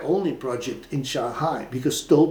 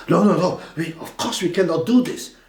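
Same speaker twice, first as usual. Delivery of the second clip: mock boss; 4 semitones higher than usual. Boss refusing.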